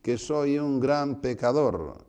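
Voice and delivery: loud, high pleading shout; crying out. Retold or imitated. Blind man begging Jesus for mercy, crying out loud. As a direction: call out loudly, dragging out the plea. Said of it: "y gritaba".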